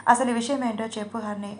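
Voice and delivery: usual speaking voice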